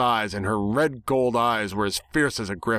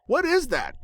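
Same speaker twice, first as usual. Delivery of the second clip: higher, curious pony voice; curious Dash. A narrator's reading. Dash asks about the cigarette, higher and curious. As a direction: ask it with raised eyebrows. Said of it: "Dash asked".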